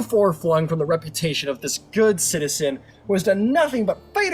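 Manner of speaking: sway the jury with pomp; a lawyer addressing the jury, hammed-up and grandiose; courtroom closing speech. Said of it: "I can't believe I'm doing this shit".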